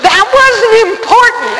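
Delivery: high, loud, outraged rant at God; retold anger. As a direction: argue with God at full, indignant shout. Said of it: "I really got mad".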